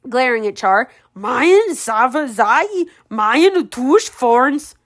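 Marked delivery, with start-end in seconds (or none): 1.1-4.7 slow drawn-out ogre words; ogre hissing. Acted. Ogre glaring at Char, hissing slowly in Ogreish. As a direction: drag the ogre tongue out slowly. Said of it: "the ogre hissed".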